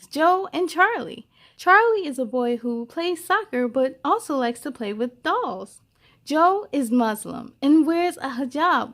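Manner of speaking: gentle, expressive storybook reading; lively read-aloud for young listeners; reading to children. Acted. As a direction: read it like a picture book to a class. Reads a picture book aloud.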